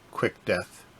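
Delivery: low, quiet and menacing. Acted. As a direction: growl the threat softly. Voices villain line.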